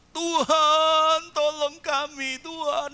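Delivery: high, loud mock-weeping plea; hammed-up tearful prayer; crying prayer. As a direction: cry out to God like a broken-hearted worshipper. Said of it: "Nangis, hancur hati".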